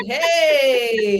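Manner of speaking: high whimpering mock plea; whiny hurt partner. Partner mimicked as wounded, a high mock whimper. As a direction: play the wounded partner, pleading. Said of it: "and it's just like".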